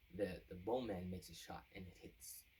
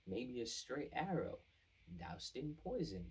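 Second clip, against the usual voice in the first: slow, sly suggestion, pitched up; slow conspiratorial hint of a poisoned arrow; 4 semitones higher than usual. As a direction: drop the hint slowly like a schemer. Advisor hinting at murder.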